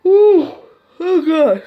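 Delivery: high, loud sudden ooh; loud surprised outburst; startled yelp. Real, not acted. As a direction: jump at something unexpected. Sudden startled interruption while reading.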